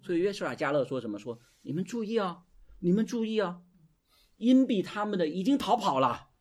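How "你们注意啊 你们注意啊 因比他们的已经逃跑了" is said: high, rousing cry; rally the people with rising force; bold loud proclamation. Acted. Joshua and Caleb rallying frightened Israelites, high bold proclamation. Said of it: "神让他们大声说什么？".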